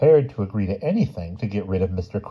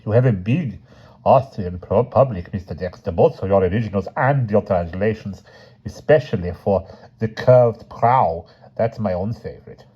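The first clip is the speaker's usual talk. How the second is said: lightly voiced Austrian accent; a hint of an Austrian accent. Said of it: "We'll switch him to a Austrian accent".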